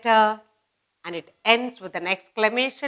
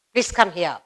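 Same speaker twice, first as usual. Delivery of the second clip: command; 4 semitones lower than usual. Shown as a demonstration. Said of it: "Order, command".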